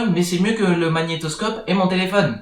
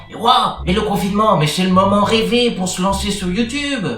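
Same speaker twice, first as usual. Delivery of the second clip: excited viewer; 4 semitones higher than usual. Retold or imitated. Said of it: "vous vous dites".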